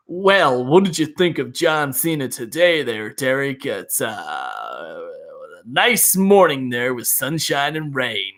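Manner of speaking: slow, dragging fake host chatter; mock wrestling presenter. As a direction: parody a bland podcast co-host small talk. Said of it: "weird voice for wrestling".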